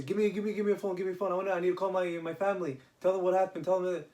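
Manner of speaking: eager, breathless demand; excited, frantic. Retold or imitated. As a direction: rush it like you just got your legs back. Healed man frantic to phone.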